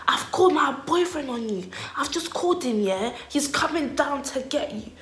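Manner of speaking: lightly voiced taunt; threatening girl.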